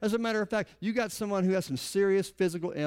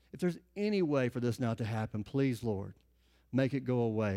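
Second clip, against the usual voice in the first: a hint of anguished plea; 8 semitones lower, 3 dB quieter than usual. Preacher voicing Jesus praying in the garden, soft anguished plea. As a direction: lower and softer, a pleading Jesus lightly voiced. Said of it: "Jesus himself. In the garden, what's he say?".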